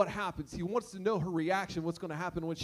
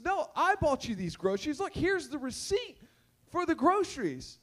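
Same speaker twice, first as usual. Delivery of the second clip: exasperated neighbor; 5 semitones higher than usual. Retold or imitated. Neighbor argues with woman.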